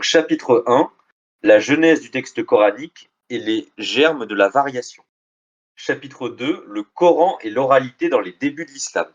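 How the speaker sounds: deliberate, articulated title reading; reading out chapter titles. Acted. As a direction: read each title out like a list of headings.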